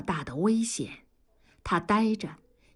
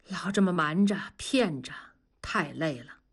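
weary whisper; 3 semitones lower than usual. Acted. Weary confession.

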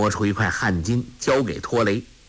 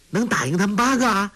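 put-on high, fast, disbelieving boy; can two of us really beat eight; surprised; 9 semitones higher, much faster than usual. Boy asking Zhu Cong in disbelief, high and amazed.

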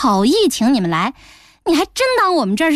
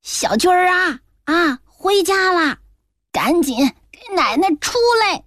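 angry calling out; 7 semitones higher than usual. A narrator's reading. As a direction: call the boy out of the room, furious. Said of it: "气冲冲地在诊室的门口喊". (奶奶气冲冲地朝门里高声喊孙子)

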